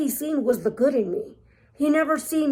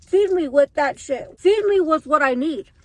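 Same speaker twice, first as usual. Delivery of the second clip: craving body voice; 3 semitones higher, 5 dB louder than usual. Pretend. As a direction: bark orders as a starving body. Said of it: "it's like".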